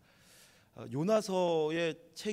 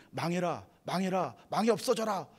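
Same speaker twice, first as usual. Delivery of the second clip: inner shout; 3 semitones higher, 5 dB louder than usual. Retold or imitated. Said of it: "하고 외치면서".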